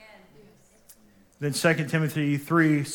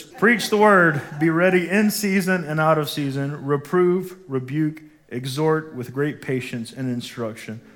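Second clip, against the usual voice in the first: forceful scripture read; 3 dB louder than usual. Real, not acted. Pastor booming scripture to his congregation, loud. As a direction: preach it out, loud and ringing.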